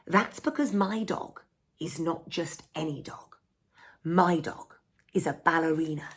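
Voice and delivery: lively picture-book read-aloud; storybook narration. A narrator's reading. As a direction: read it to children, bright and playful.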